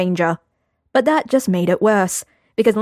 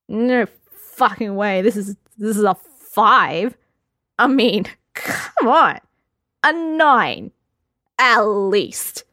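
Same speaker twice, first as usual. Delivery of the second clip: put-on drunk Lambert voice; 2 semitones higher, slower than usual. Lambert drunkenly argues card value.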